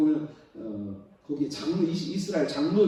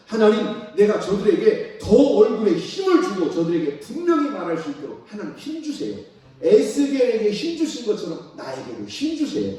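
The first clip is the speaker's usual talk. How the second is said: loud, higher pleading prayer; fervent prayer; 6 semitones higher, 7 dB louder than usual. Acted. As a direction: cry out to God for strength. (크고 높게 간절히 기도)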